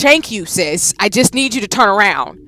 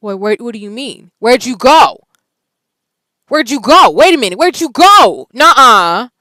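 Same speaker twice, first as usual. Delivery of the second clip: loud high alarmed questions; startled, rising shouts; 6 semitones higher, 11 dB louder than usual. Real, not acted. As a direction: call after someone who vanished. The voice vanished, alarmed.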